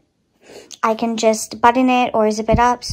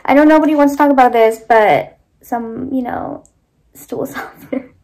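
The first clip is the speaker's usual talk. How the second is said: laughing. Real, not acted. Embarrassed topic, laughing through.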